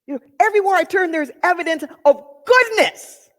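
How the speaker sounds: fly through "everywhere I turn", then lean on "goodness"; stress on goodness. Shown as a demonstration. Another take for listeners, fast then stressing goodness. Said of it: "shift the emphasis on each one".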